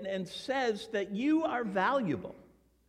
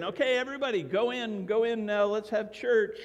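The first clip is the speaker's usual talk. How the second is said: raised, higher voice herding everybody inside; calling people in; 4 semitones higher, 4 dB louder than usual. Retold or imitated. Preacher telling everybody to go in for church, calling out. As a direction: call out to round up the crowd.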